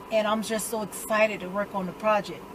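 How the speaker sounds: a hint of a polite, measured speechmaker; prep boy speech. Imitating Andre's speech about the honor, mild prep boy manner. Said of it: "doing this little prep boy speech".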